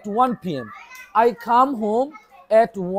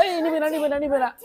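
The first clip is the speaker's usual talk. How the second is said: mock warning; 6 semitones higher, faster than usual. Shown as a demonstration. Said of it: "আমি বলো".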